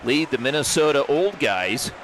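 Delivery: brisk hockey commentator calling the action; play-by-play. Acted. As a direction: call the game live, rink announcer energy.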